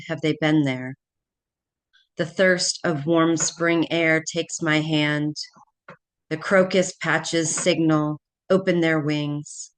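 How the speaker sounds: measured poem reading with pauses between lines; poetry reading. Acted. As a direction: read it aloud as a poem, line by line. Reads her poem aloud.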